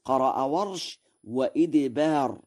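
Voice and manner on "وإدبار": "وإدبار" with an i after the hamza; kasra on the hamza. Shown as a demonstration. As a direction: say "وإدبار" as wa-idbar, not wa-adbar. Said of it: "بكسر الهمزة".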